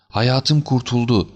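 high, drawn-out cry of relief; joyful cry. A narrator's reading. Client overjoyed at getting the jewels back, rising joyful cry. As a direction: raise it into a slow, elated exclamation. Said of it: "sevinçten çığlık atarak".

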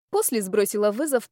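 plain reading voice

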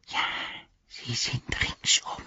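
heiseres, gehauchtes Geflüster einer Kreatur; Gollum flüstert. A narrator's reading. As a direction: zischle es wie eine lauernde Kreatur. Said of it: "flüsterte er". (Gollum flüstert Sam zu, gehaucht und unheimlich)

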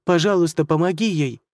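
desperate plea. Acted. Girl begging for mother.

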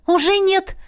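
eager exclamation. Acted. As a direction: blurt it out decisively. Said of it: "воскликнула я".

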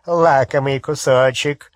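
harsh, grating menace; grating werewolf voice. Acted. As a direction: grind the words out like a beast. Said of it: "знакомый до дрожи скрижащущий голос".

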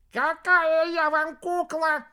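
very high, loud, slow yell; wailing little alligator. A narrator's reading. Shrunken alligator yells at the cubs, outraged. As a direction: howl it out, offended. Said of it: "завопил уменьшенный аллигат".

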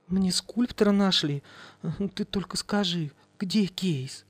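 high, pleading widow wheedling; high wheedling plea; coaxing plea. Acted. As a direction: coax the ghost for the money.

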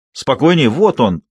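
put-on Спокойнее called out to the girl; shouted warning. Calling across river. (крик через реку)

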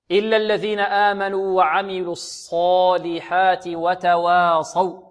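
slow, measured tajweed chant; Quran recitation. Shown as a demonstration. Tajweed teacher models the verse, slow measured recitation. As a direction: recite slowly with long drawn vowels.

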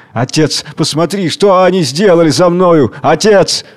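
a hint of a stammering child; man on his knees begging his father; childlike trembling voice. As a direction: plead like a small child. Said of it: "дрожащим, запинающимся картавым голосом, как ребёнок".

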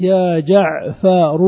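"جعفر" drawn out in full as "jaʿfaru"; full vocative form. Shown as a demonstration. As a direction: slowly sound the final "ru" of "جعفر". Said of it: "كذلك". (نطق "جعفر" كاملاً بضم الراء)

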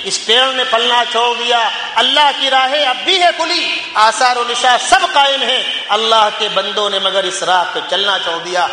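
measured, declaimed verse; poem recitation. Acted. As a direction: recite the couplets rhythmically to a congregation. (خطیبانہ انداز میں شعر خوانی)

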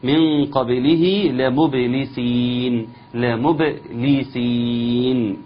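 لمبلسين drawn out with clear letters; slow recitation demo. Shown as a demonstration. Teacher modelling لمبلسين for the class, slow and exact. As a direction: recite من قبله لمبلسين slowly, carefully. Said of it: "كلمة لمبلسين".

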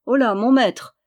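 crier plus fort pour héler de loin; héler le passant à pleine voix; appel crié. Acted. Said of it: "cria le voyageur". (le voyageur hèle Jeannin de loin, en criant)

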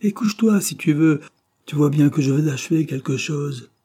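high-pitched, exasperated snapping back; sudden exasperation. A narrator's reading. Painter interrupted at work rebuffs his partner, exasperated. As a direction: burst out crossly, pitch leaping up. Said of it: "d'une brusque exaspération".

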